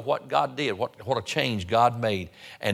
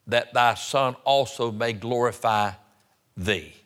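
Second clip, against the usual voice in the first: scripture reading. Real, not acted. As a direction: read the verse out deliberately to the congregation. Reads scripture aloud.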